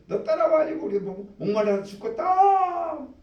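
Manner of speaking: whining complaint. Acted. Israelites whining at Moses, tearful and high. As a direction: wail the blame at Moses.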